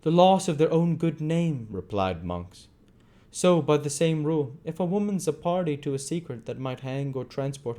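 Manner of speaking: sneering Monks. A narrator's reading.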